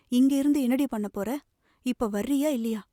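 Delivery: harsh threat. Acted. Mother ordering her crying daughter out, harsh threat. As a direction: bark the order to come out now. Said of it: "தாய் பலமாக மிரட்டினாள்".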